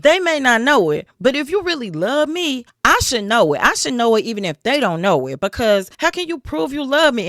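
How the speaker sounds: high whiny pleading; pleading wife. Retold or imitated. Wife guilting Samson to tell her, high whiny plea. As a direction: beg with a high mock whine. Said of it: "She was like".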